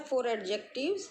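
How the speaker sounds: slowly reading out a heading for notes; very slow, clear classroom dictation. Shown as a demonstration. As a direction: dictate it word by word.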